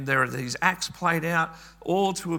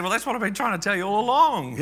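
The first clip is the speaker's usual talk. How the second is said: higher, louder, quick retort; retold son driving his point home; making the point; 5 semitones higher, 5 dB louder, faster than usual. Son answers his father about the lifeless idols, exasperated retort.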